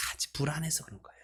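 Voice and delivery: fast whispered aside. Real, not acted. Pastor drops a quick whispered aside to the congregation. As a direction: let it slip as a quick whisper.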